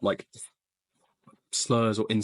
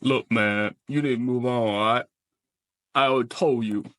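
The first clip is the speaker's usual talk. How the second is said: put-on Southern accent. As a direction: warn him off in a natural-pitched Southern voice. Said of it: "I was doing a southerner".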